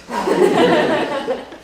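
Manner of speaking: laughing. Acted. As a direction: run of short laughs. Reaction after backing off.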